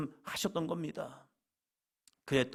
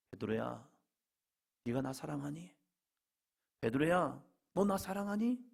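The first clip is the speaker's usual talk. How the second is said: tender questioning. Acted. Jesus asking Peter if he loves him, tender questioning.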